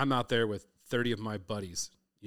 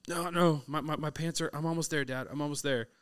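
daughter voice; 6 semitones higher than usual. Retold or imitated. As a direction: hurry like a girl scrambling to get ready. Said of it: "she's like".

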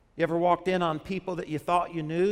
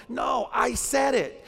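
firm declaration; 4 semitones higher, slower than usual. Acted. Preacher modeling a confession to the congregation, firm. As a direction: own it with conviction.

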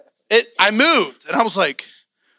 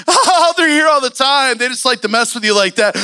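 mock laughing reassurance, pitched up; laughing reply; 3 semitones higher than usual. Friends laughing off the preacher's fright. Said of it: "them two start going".

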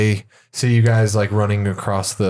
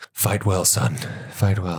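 tender; 2 semitones lower, 4 dB quieter than usual. Acted. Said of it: "Aurelia's like".

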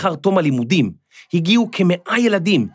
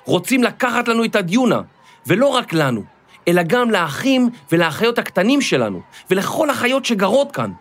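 calling out higher into the microphone; rally the crowd with a raised voice; shouting into a mic; 5 semitones higher than usual. Acted. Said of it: "החל לצעוק". (קריאה בקול רם ובגובה למיקרופון)

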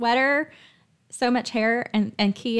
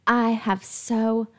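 spoken affirmations; 3 semitones higher than usual. Acted. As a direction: declare each line with conviction.

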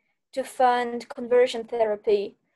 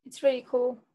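dry deadpan sarcasm; sarcastic. Pretend. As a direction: say it flat, meaning the opposite. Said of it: "we were just sarcastically like".

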